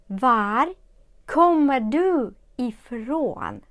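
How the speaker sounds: "Var" then slow "kommer du ifrån"; split word, slow. Shown as a demonstration. Teacher shows how Swedes split the word for learners. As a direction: pause after "Var", rest drawn out. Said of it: "шведи люблять розділяти слово varifrån".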